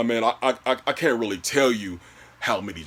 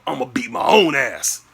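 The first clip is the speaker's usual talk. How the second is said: acted shout of frustration; frustrated outburst; 3 semitones higher, 5 dB louder than usual. Customer fretting over last pair, frustrated outburst. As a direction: burst out loud at yourself. Vows to himself in line.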